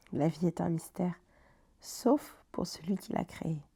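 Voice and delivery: measured poem reading with long pauses; unhurried reading of a personal poem; poem recitation. Acted. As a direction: recite the poem line by line, letting each rest. Recites their own poem.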